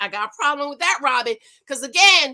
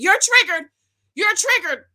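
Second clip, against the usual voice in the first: higher, mocking repeat of the taunt; imitating Crystal; 7 semitones higher, 4 dB louder than usual. Mimicking Crystal taunting Robin with a mock needling voice. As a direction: parrot her needling chant. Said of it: "she's over here talking".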